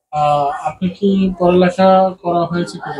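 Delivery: ordinary talk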